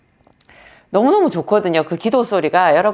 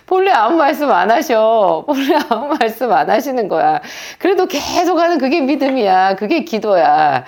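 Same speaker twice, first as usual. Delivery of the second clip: laughing reply; 5 semitones higher than usual. Retold or imitated.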